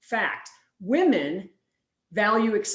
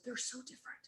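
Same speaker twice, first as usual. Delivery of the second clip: very soft, higher, helpless voice; overwhelmed despair; 4 semitones higher, 17 dB quieter than usual. Retold or imitated. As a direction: imitate a defeated friend faintly. Overwhelmed friend retold.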